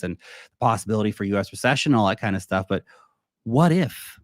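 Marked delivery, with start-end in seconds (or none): 3.4-4.2 higher, emphatic teasing question; raised what-if. Real, not acted. Host floating a contrarian market idea, raised emphatic question. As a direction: pitch the question up. Poses a hypothetical, then echoes it.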